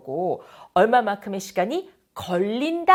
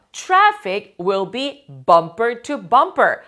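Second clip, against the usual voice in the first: traffic will be bumper to bumper said very slowly and clearly, a touch louder; slow model reading; 6 dB louder, much slower than usual. Shown as a demonstration. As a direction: read it out slowly for learners to copy. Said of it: "teacher models the phrase".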